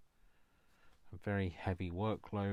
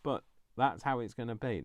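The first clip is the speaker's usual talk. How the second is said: laughing nervously; 4 semitones higher, 7 dB louder than usual. Real, not acted. Emotional over success.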